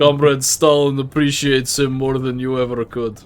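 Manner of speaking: put-on Russian accent. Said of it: "thick Russian accent".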